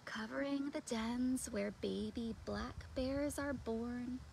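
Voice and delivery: put-on slow, gentle read-aloud to children; picture-book reading. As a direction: read it slowly and softly, like a bedtime story.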